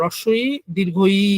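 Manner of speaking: রস্বই দীর্ঘ ই said slowly, each sound drawn out; demonstrated pronunciation. Shown as a demonstration. Teacher slowly models রস্বই দীর্ঘ ই for students. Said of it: "আপনারা উচ্চারণটা কি হয়?".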